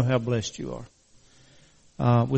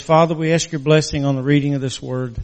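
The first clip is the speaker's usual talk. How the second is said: prayer. Acted. Opening prayer before scripture.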